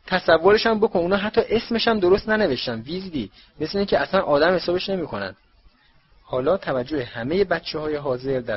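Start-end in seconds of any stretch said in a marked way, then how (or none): 0.1-5.3 high, loud jeering voice; mock Ron loudly before everyone; loud taunt. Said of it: "با صدای بلند گفت".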